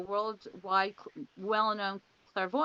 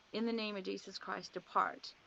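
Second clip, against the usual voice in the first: softer retold casting-out words; hushed command; 6 dB quieter than usual. Hands raised against the evil presence, quietly ordering it out. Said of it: "I put up my hands and I said".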